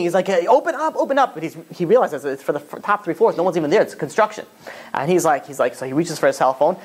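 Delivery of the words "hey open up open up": higher-pitched mock call to be let in; urgent but mild acted plea; calling through a door. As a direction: act out calling at a locked door. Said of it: "he starts banging".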